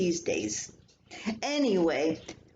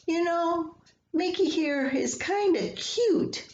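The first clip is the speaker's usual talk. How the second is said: husband's teasing; 11 semitones higher than usual. Retold or imitated.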